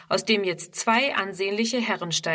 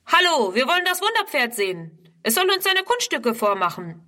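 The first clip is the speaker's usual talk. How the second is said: bellowing youths; 6 semitones higher than usual. A narrator's reading. Rowdy youths bellow at Ernst across the paddock, shouting. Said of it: "nein, brüllen sie Ernst zu".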